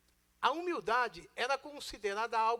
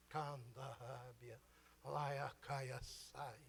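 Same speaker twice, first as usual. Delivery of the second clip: low, soft mock speaking in tongues; a playful fake prayer language, low and soft; joking mock tongues; 10 semitones lower, 13 dB quieter, much slower than usual. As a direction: mumble made-up holy words, half joking. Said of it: "eu vou brincar".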